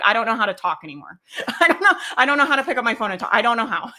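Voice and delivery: mock helpless whine through laughter; laughing mock panic. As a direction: play the flustered beginner, half laughing. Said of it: "all of a sudden you're like".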